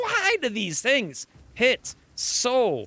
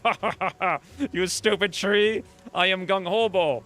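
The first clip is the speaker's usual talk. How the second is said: mocking hero; 3 semitones lower than usual. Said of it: "He just laughs at, he's like".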